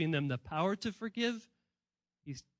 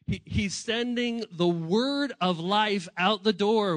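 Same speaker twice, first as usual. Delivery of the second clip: slow deliberate; 5 dB louder, slower than usual. Shown as a demonstration.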